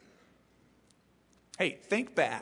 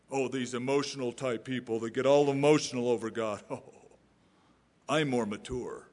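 mock disdain; 3 semitones lower than usual. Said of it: "we decry emotion".

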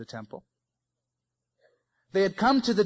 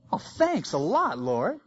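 sarcastic thanks; slower than usual. Retold or imitated. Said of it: "Jeremiah's sarcastic reply".

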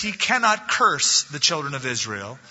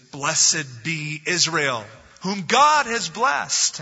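solemn prophecy; much slower than usual. Acted. Balaam prophesies a blessing.

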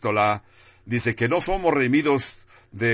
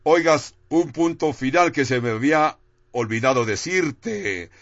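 higher-pitched, mock last-minute interruption; mock sudden call-out; 4 semitones higher than usual. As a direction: imitate God suddenly calling someone back. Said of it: "de repente le grita y le dice".

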